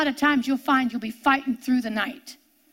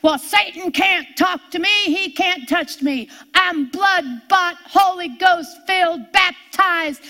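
smug boasting quote; 3 semitones higher, 4 dB louder, slower than usual. Retold or imitated. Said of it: "I've heard him with my own ears".

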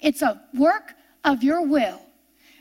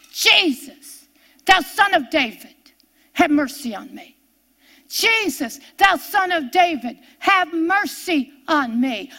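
crying out like blind Bartimaeus; 2 semitones higher than usual. Retold or imitated. Preacher reliving her prayer over housework, pleading cry. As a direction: lift Jesus, then ease down on have mercy on me. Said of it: "I turned into blind Bartimaeus".

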